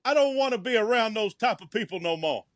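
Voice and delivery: high-pitched, put-on comic dog accent; Frank. Co-host voicing a dog shunning the vet crowd, comic accent. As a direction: complain as a dog in a jokey accent. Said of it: "I don't know why you have Frank that accent".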